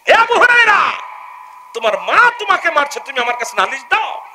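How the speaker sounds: scolding rebuke. Acted. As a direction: rebuke him sharply. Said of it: "রাসূল ধমক দিয়ে বলতেছে". (ধমক দিয়ে উচ্চস্বরে)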